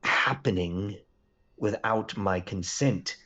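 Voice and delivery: lightly voiced slow, deliberate queen; a measured queen reasoning out her trap; slow, halting formal speech; queen in a story. Plays a trapped queen figure.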